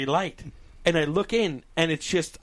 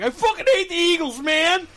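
Big Lebowski mode; 11 semitones higher than usual. Retold or imitated. Drunk guy over music choice, Lebowski-style outburst. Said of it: "my Big Lebowski mode".

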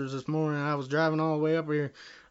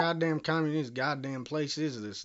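raised-voice, exasperated swearing; outraged ranting; 4 semitones higher, 7 dB louder than usual. Acted. Caller told there is only unleaded, outraged ranting. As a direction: rant in disbelief at the clerk.

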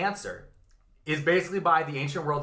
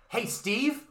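a jokey "fuck you" shouted louder; mock yell at the boss; 7 semitones higher, 5 dB louder, much slower than usual. Workers yelling at their manager Steve, mock yell. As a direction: hurl it at Steve like a heckler.

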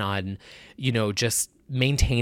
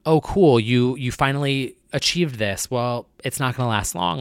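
doubting inner voice. Retold or imitated. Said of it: "that voice that is doubting".

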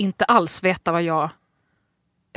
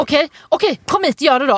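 giving in; 6 semitones higher, 4 dB louder than usual. Retold or imitated. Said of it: "precis, jag jobbar inte ikväll".

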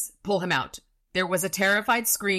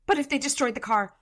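high, anxious question; timid, high-voiced worry; worried Butters; 8 semitones higher, 3 dB louder than usual. A narrator's reading. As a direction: raise the pitch into a nervous worried query. Voicing frightened Butters in the story.

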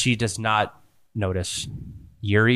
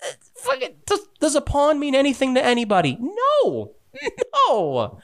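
high, mocking villain voice; a villainess laughing at her betrayed ally, pitched high; gloating villainess. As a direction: sneer at the prisoner and cackle.

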